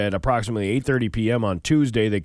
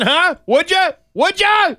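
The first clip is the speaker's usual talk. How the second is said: higher and louder, pressing the clerk; offended demand; 6 dB louder, slower than usual. Acted. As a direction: push him for an answer, offended. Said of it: "clearly offended".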